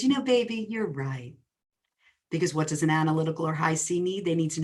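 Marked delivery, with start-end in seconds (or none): 0.0-1.3 put-on a light, lightly sweet "You know, baby"; sweetly conceding. A wife sweetly telling her analytical husband he's right, lightly sweet. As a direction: give in gently so he feels right. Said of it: "I turned around ever so sweetly".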